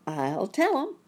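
high, loud little bird voice; chirping. A narrator's reading. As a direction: chirp it out brightly. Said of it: "chirped Dickie".

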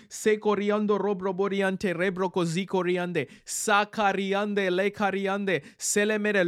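fervent tongues prayer; praying in tongues. Real, not acted. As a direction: pour out tongues in a steady prayer flow. Prays in tongues.

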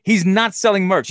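high, loud disbelief at no merch; he's not even selling, can you believe it; incredulous. Real, not acted. Telling his cohost about the empty table, incredulous and loud. Indignant retelling, much higher and louder.

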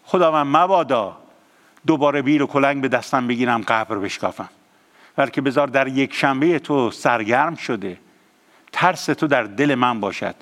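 prayer. Acted. Leads a prayer.

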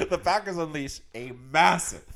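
breaking up mid-sentence; struggling not to laugh. Real, not acted. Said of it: "I can't even say it without laughing".

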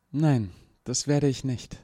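smooth, snake-like refusal; silky venomous. A narrator's reading. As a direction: purr the no like a viper. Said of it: "mit einer Stimme so geschmeidig wie eine Giftschlange". (geschmeidig wie eine Giftschlange)

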